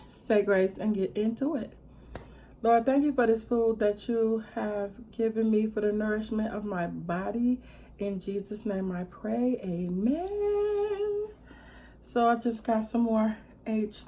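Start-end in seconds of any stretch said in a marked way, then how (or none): 2.6-11.3 prayer. Real, not acted. Says grace before meal.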